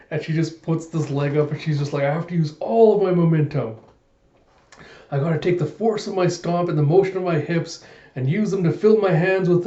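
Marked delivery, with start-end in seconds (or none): 2.0-9.7 raised, intense mock resolve; psyching herself up.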